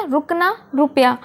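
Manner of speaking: रुकना रुपया with short quick रु sounds. Shown as a demonstration. Teacher repeating short रु words for the class. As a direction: say रुकना रुपया with a fast clipped रु. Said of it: "र जल्दी बोला गया ना".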